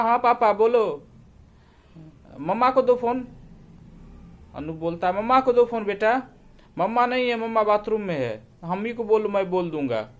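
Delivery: put-on a high, chirpy kid's voice; young boy. Son answering his father on the phone, eager and childlike. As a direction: sound like a small eager son.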